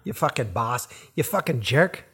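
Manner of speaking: Boston accent. Shown as a demonstration.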